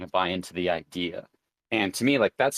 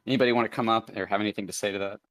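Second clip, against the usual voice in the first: breathless, winded voice; talking while out of breath; faster than usual. Real, not acted. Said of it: "'Cause I'm out of breath".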